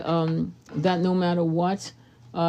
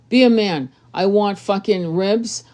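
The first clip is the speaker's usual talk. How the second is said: emphatic man's demand; 3 dB louder than usual. Retold or imitated. Man voicing decisive demand.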